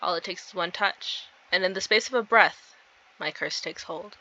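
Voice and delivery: hushed story narration. A narrator's reading. Player reading of a curse taking hold, hushed narration. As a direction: let the dread settle quietly. Reads game story aloud.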